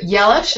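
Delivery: "Yelish" with a Y sound to start; Croatian pronunciation. Shown as a demonstration. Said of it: "it's actually Croatian".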